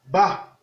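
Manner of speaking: Ba on a short low tone. Shown as a demonstration. Teacher reading syllables, Ba on low tone. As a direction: drop Ba to the low tone. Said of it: "Ton bas".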